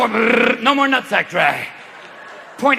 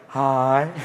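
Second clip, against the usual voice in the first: blissed-out hi; 7 semitones lower than usual. Acted. Ecstasy player in huddle.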